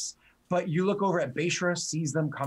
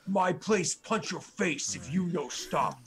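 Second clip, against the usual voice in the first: orc threat; 3 semitones higher, slower than usual. Acted. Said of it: "He's like".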